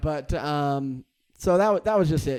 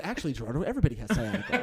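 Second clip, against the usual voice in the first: put-on lower, matter-of-fact version of the mom, no accent; mom without accent; 5 semitones lower, 4 dB quieter, much faster than usual. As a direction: correct him as an unaccented mother, amused. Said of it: "she probably said".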